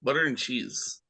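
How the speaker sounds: flat Midwestern "butter and cheese"; Wisconsin accent. Pretend. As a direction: say it like a Wisconsin local. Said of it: "It's almost Wisconsin sounding".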